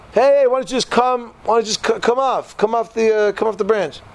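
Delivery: high, called-out plea; calling down. Retold or imitated. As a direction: shout down to someone below. Friend calls down to him.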